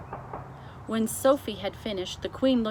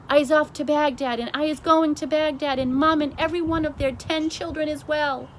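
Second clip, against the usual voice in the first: higher, louder giant shout; retold shout; 7 semitones higher, 8 dB louder than usual. The BFG imitates Flesh Lump Eater shouting, higher and louder. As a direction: mimic the giant bellowing. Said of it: "shouting at me".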